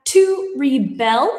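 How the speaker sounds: rebel as a verb, ri-BEL; stress on second syllable. Shown as a demonstration. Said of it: "there's a different pronunciation on those".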